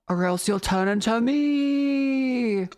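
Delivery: put-on slow, creaky old miser voice; spooky voice. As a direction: drag it out like a ghostly old man. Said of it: "I'm doing my spooky voice".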